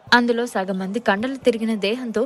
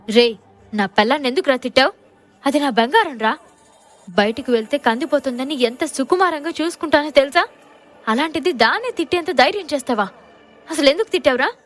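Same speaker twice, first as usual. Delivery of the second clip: loud, fast threatening questioning; louder menacing demand; angry interrogation; 2 semitones higher, 4 dB louder than usual. Acted. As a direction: bark the questions at the guard. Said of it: "కోపంగా అడిగాడు".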